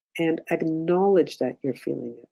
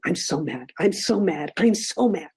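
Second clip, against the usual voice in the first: building mock anger; 2 semitones higher than usual. Shown as a demonstration. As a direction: wind yourself up with each repeat. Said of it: "lock the door and say".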